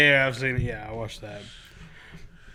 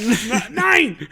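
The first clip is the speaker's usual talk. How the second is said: German no; 7 semitones higher, 3 dB louder than usual. Retold or imitated. Repeating German nine.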